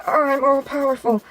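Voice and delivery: slow, hammed-up power boast; put-on grandiose voice; mock all-powerful villain. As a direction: draw it out like a mighty villain. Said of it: "Andrew's all like".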